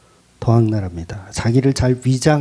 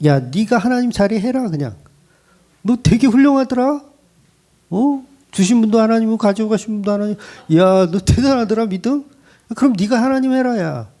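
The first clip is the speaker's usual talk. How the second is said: higher-pitched, needling mock praise; sharp sarcastic rebuke; 6 semitones higher than usual. God firing back at Job, sarcastic and sharp. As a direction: fire taunts at someone who thinks too well of himself. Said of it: "하나님은 욥에게 막 쏘아붙이는 거야".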